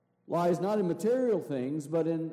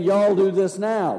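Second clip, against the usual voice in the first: louder, lightly Texan "Y'all do this now"; mock Texan command; 5 semitones higher, 9 dB louder than usual. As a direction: play a Texan preacher giving the order. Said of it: "So in Texan".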